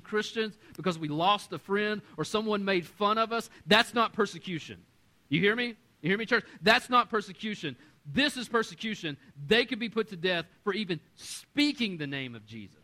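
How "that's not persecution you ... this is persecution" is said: louder, higher, stressing not and this; preaching emphasis. Real, not acted. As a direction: hammer the point home. Pastor preaching hard.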